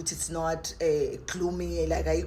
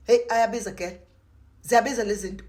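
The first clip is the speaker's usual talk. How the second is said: exclaiming; 4 semitones higher, 6 dB louder than usual. Real, not acted. Exclaiming at the price.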